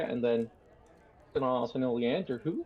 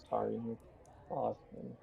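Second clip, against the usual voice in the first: sheepish mumble; 10 dB quieter than usual. Acted. Young guard to the prisoner she is tying, sheepish mumble. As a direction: mumble it under your voice, sheepishly. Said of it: "she's kind of mumbling".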